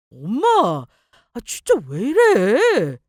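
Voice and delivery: loud, slow frustrated cry of mom; exasperated outburst. Acted. Son loses patience with his nagging mother, loud outburst. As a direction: snap at her in frustration.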